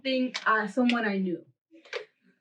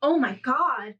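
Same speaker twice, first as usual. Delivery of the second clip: high frightened gasp; panicked, voice jumping up; scared; 5 semitones higher than usual. Retold or imitated. Retelling waking up scared.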